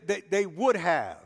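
rising sermon cadence, punching "but God"; preaching. Acted.

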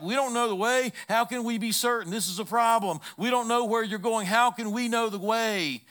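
imitating a fretting disciple demanding certainty; anxious Thomas. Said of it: "And so Thomas is like".

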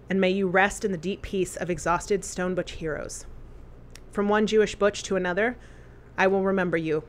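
steady, heartfelt reading of a written tribute; a personal eulogy read to podcast listeners; eulogy read aloud. Acted. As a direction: read it like a love letter at a memorial.

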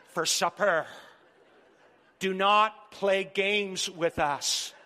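slow, emphatic pleading to the wives; emphatic plea. Acted. Preacher to the wives in the congregation, slow and emphatic. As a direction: spell it out slowly, word by word, laughing along.

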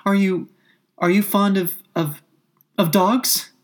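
high, halting question; hesitant Alice. A narrator's reading. Alice hurries to change the subject, hesitant high voice. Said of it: "in a great hurry to change the subject".

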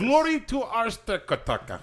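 high, slow, solemn chant; grand proclamation. Pretend. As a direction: proclaim it like an anthem. Mock anthem proclamation.

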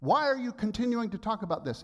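husband retelling his irritated protest to his wife; defensive complaint. Retold or imitated. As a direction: replay your own huffy pushback. Quoting himself defensive to wife.

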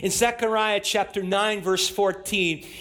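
ordinary talk

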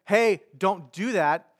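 mildly annoyed, slow telling-off; understated acted indignation. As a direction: tell them off slowly with a touch of annoyance. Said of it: "They obviously knew he was annoyed".

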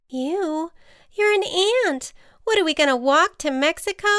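high-pitched disbelief; baffled, quick storybook protest; incredulous butterfly. A narrator's reading. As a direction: scoff at a silly offer, voice rising. Butterfly scoffs at the ant's offer.

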